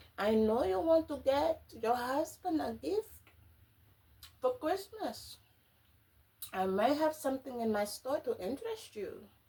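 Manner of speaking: put-on heavy Eastern European accent, laid on thick. Telling a story, voicing a lady who offers Stella something: thick Eastern European accent. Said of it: "really thick, like, Eastern European or some kind of European accent".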